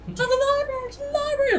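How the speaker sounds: high distant calling out; guards shouting. Acted. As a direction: yell the order across the ship. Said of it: "you hear guards shouting".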